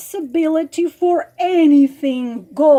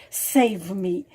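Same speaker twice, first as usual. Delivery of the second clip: mock pleading; 6 dB louder than usual. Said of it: "make the sad eyes and crocodile tears".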